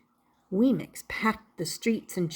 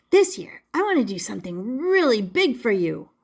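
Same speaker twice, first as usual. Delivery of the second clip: eager Punchinello. Acted. Puppet promising his maker a big surprise, eager. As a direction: burst out with excitement.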